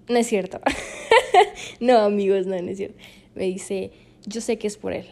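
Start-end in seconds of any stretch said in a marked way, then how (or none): 4.3-5.1 soft, mildly stern imitation of dad; severe, grave father. Father tells daughter he knows, grave imitation. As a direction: quietly play the knowing, serious father. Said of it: "con voz severa, ¿no? O sea, grave".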